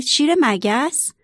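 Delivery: slow, rising puzzled question; puzzled surprise. A narrator's reading. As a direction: ask it slowly, baffled by the word. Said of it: "با تعجب به شیر نگاه کرد و پرسید". (تعجب آرام و پرسشی)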